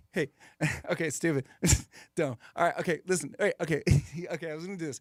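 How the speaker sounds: fast, giggly Fallon; Jimmy Fallon impression. Comedian doing Jimmy Fallon, giggling between fast words. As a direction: laugh through it, fast and goofy. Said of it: "Jimmy Fallon's always like".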